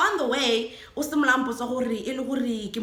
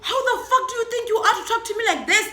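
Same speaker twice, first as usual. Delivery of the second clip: laughing mock rage; 9 semitones higher, faster than usual. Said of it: "he's like".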